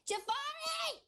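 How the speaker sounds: loud, high, drawn-out call. Acted. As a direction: holler the name for someone to come. Calling out to another character.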